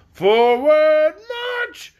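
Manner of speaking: high, loud drill shout; shouted order. Acted. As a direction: bark it at the majors. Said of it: "colonels shouted to the majors".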